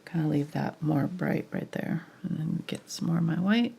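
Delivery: normal talking voice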